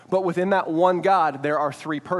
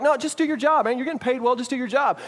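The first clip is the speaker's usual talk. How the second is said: higher, brushing-off coworker voice; dismissive coworker; 6 semitones higher than usual. Pretend. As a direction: wave the worry away lightly. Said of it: "they're like".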